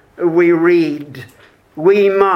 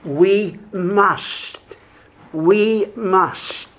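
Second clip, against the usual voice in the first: preacher pressing the words "We must" home; stress on we must; 3 dB quieter, much slower than usual. Shown as a demonstration. Preacher to congregation, pressing "we must". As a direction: lean on "we must" slowly. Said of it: "I want to emphasize the words, "we must".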